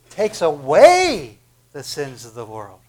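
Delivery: slow, loud, drawn-out declaration; emphatic proclamation. Acted. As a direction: proclaim each word slowly. Congregation completes John's quote.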